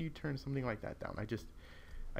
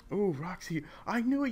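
much higher, louder I knew it; triumphant; 8 semitones higher, 4 dB louder than usual. Real, not acted. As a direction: crow it in triumph. Roxy learns expected move.

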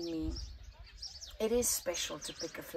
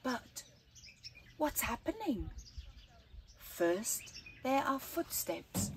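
put-on slow, lilting read-aloud for children; gentle storyteller reading to kids; story narration; 2 semitones higher than usual. A narrator's reading. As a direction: tell it like a bedtime picture book. Reads picture book aloud.

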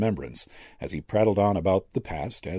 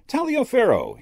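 high, louder cry of recognition; warm greeting; 5 dB louder than usual. A narrator's reading. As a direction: hail an acquaintance warmly, pitched way up. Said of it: "he greeted warmly".

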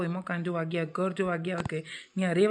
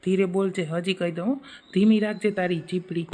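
scolding; 4 dB louder than usual. Acted. Father-in-law scolds wife.

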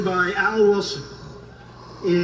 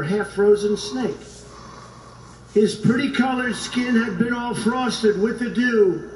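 measured storytelling recital of a poem; 3 semitones higher than usual. Acted. Speaker reciting the snake poem to the crowd, measured recital. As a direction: read it like a cautionary fable.

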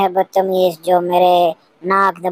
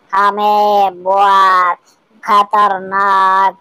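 drawn-out boast; much slower than usual. Acted.

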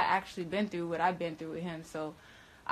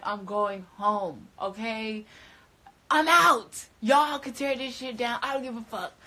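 slow then much louder, much higher declaration; fed-up exit; 3 semitones higher, 6 dB louder than usual. Retold or imitated. Quoting herself quitting the haunted house, fed-up and loud. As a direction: announce you are done and leaving. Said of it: "I was like".

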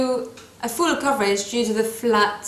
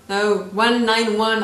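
slow correction; slower than usual. Shown as a demonstration. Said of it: "I said one nine one".

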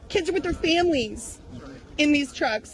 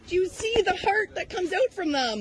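much higher pitched, insistent questions; pleading indignation; 6 semitones higher than usual. Real, not acted. Protester pressing the reporter.

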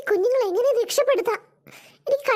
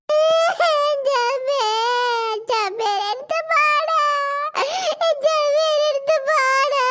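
scared cries; slower than usual. Acted. Child crying out in fear.

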